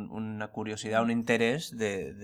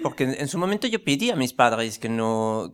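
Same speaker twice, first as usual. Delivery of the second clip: put-on French accent; 4 dB louder than usual. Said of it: "con este acento extraño".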